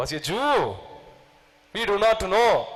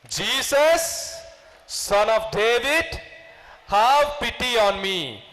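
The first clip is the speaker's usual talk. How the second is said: raised cry for pity, pitched up on Jesus; blind man shouting; 4 semitones higher, slower than usual. Retold or imitated. Blind Bartimaeus cries to passing Jesus, raised plea. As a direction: call out to Jesus as he passes. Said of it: "What did he shout?".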